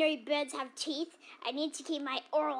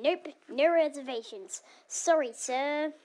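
loud refusal; 7 dB louder than usual. Acted. Clerk refuses the guest.

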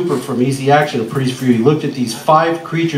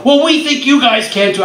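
excited reply; 8 semitones higher than usual. Retold or imitated. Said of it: "And they go".

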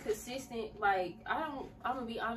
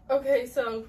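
pulling herself together; 4 semitones higher, 12 dB louder than usual. Real, not acted. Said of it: "I did not expect to cry".

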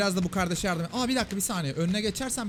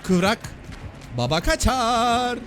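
loud, high boast, last words drawn out; whooping, stretched-out brag; triumphant shout; 5 semitones higher, 5 dB louder, much slower than usual. Real, not acted. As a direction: crow it out as you slip away. Boasting as he dodges away.

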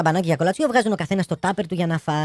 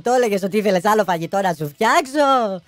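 crying widow; 3 semitones higher, 3 dB louder than usual. Acted. Widow wailing behind her husband's coffin, crying out. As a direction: wail it like a grieving wife. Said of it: "κλαίγοντας, φώναζε".

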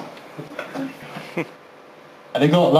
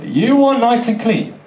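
higher-pitched, disbelieving echo; mock incredulous; 5 semitones higher than usual. Boxer answering the referee's request, mock-incredulous. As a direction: throw the rule back in disbelief.

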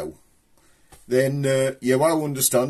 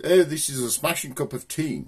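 mock posh; 2 semitones higher than usual. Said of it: "a posh person".

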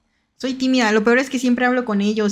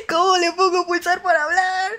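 raised-pitch mock aggression, retold; aggressive demand; 7 semitones higher than usual. Retelling how she asked for help, mock aggressive. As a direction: pipe up pushily, imitating an aggressive question. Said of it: "Le decía bien agresiva".

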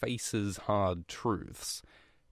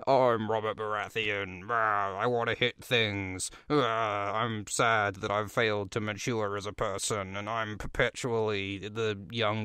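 lightly voiced blustering, self-pitying king; hammed-up sulky warrior with grunts; mock Robert Baratheon. Sad king mocked for never maturing, hammed-up grumble. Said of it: "And Robert says".

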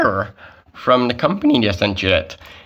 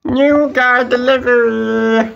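higher chirpy courier; delivery guy voice; 9 semitones higher than usual. Acted. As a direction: sing out the delivery cheerfully.

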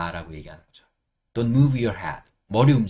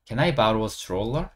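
Can I borrow a stroller, drawn out with rising end; slow model sentence; much slower than usual. Shown as a demonstration. Teacher modelling an example sentence for learners, slowly. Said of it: "예문을 하나 만들어 드릴게요".

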